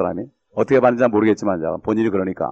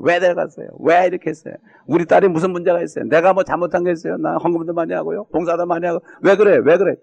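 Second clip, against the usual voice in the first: complaining father; 4 semitones higher than usual. Retold or imitated. Father complaining to God for years.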